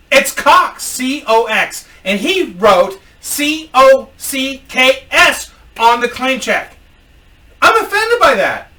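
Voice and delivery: high, loud mock complaint; indignant customer. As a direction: spell it out in put-on outrage.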